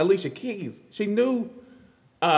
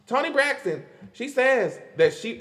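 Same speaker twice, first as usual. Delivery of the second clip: higher-pitched radio presenter delivery; radio host; 6 semitones higher than usual. Real, not acted. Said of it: "I sound like one of those radio".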